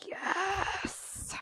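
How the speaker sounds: high squealed yes; excited cheer. Retold or imitated. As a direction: squeal it like a thrilled network. Lifetime cashing in, mock cheer.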